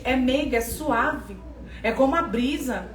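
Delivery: gentle, soft voice. Shown as a demonstration. Preacher showing how God's voice really comes, gentle and soft. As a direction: let it settle softly like a breeze. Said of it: "E a voz dele quando vem diferente?".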